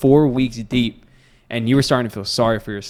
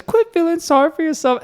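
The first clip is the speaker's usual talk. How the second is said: trainer yelling. Retold or imitated. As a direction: bark it like a trainer slapping his fighter awake. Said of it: "And he goes".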